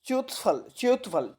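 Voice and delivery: च्युतफल with a half च, च्यु blended as one; teacher spells out च्युतफल with half चा; careful pronunciation. Shown as a demonstration. Teacher showing students how to say च्युतफल, carefully. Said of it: "देखिए आधा चा है".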